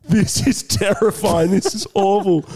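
slow, drawn-out dismay; hammed-up grave agreement; overdone sympathy. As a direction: lay the commiseration on thick, slowly. Re-enacts overdone sympathy to girlfriend.

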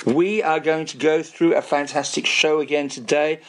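hoarse, voiceless whisper; losing his voice, whispering it out; raspy whisper. Real, not acted. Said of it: "I'm so sorry I have no voice".

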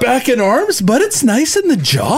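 high, stretched yawning speech. Real, not acted. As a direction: finish the yawn while talking. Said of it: "Big jaw stretch".

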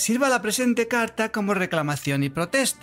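lightly sung phrase endings; a hint of a Galician lady; man doing a woman's voice. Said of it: "Es que canta, canta al final de las frases".

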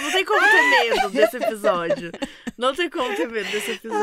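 high, breaking with laughter; can't keep a straight face; laughing through words. Real, not acted. Cohost laughing while claiming nobody can fear this episode, laughing. Laughing too much to be scared.

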